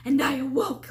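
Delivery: a burst of lively energy on awoke; acted-out start of waking; animated retelling. Shown as a demonstration. Retelling waking from the nightmare, animated burst. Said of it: "I'm all animated or whatever".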